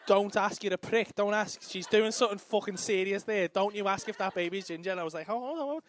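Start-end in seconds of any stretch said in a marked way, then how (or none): 0.1-4.9 louder mock scolding, with a laugh; scolding wife. Wife telling her husband off, loud and half-laughing. 5.3-5.8 higher, louder, laughing blurt; eager blurt. Retold or imitated. Husband blurting his question to the doctor, eager and laughing.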